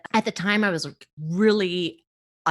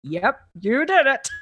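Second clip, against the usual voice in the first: slow, laid-back dog voice; deadpan it like an unimpressed pet; voicing the dogs; 6 semitones higher, 5 dB louder, slower than usual. Her dogs answering her celebration, slow and flat-toned. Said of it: "my dogs were like".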